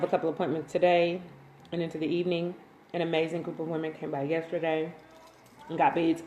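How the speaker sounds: talking around a candy; candy in the mouth while speaking; mouth full. Real, not acted. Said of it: "I have a candy in my mouth".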